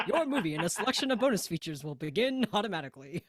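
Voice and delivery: low, deep, announcer-style read; DVD announcer voice. Retold or imitated. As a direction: intone it like a movie disc intro. Continuing DVD announcer impression.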